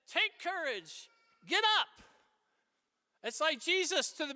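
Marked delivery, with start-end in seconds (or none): 0.1-2.0 urging. Retold or imitated. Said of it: "And they said".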